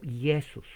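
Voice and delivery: Jesús pronounced "Yesus"; Greek pronunciation. Shown as a demonstration. Teacher giving the source of the Spanish name, Greek pronunciation. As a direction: open "Jesús" on a Ye sound. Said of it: "pronunciación del griego Jesús".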